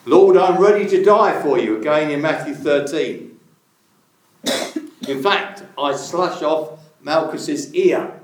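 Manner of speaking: half-play a fervent Peter pledging his life; bold Peter. Acted. Voicing Peter's bold promise.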